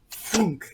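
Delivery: spoken sound of a bar dropping; imitated thunk. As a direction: thunk like something giving way.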